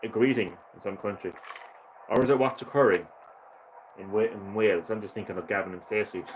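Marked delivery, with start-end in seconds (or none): 2.1-3.1 put-on terrible Welsh accent. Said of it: "Terrible Welsh accent".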